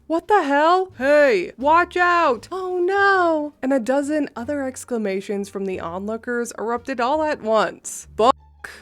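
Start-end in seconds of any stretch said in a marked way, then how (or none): 0.1-3.5 higher, louder startled cries; shocked exclamations. Retold or imitated. Onlookers crying out as the server is covered in food. 8.2-8.7 shouted. Retold or imitated. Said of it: "Roy shouted".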